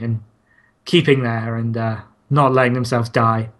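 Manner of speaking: hushed, awed nature documentary narration; David Attenborough. Pretend. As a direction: narrate like a wildlife film. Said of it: "In the style of a David Attenborough nature show".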